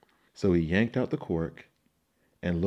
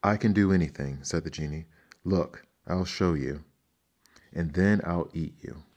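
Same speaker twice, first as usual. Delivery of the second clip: boastful genie; 5 dB louder than usual. Acted.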